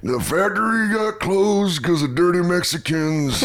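slow blue-collar gripe; comic continuing the right-wing rock-singer bit; impression of a singer. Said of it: "where he's like".

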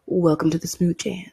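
lightly voiced smooth radio DJ; a hint of a late-night smooth radio host; smooth talk radio host. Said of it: "smooth talk radio".

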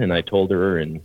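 usual speaking voice

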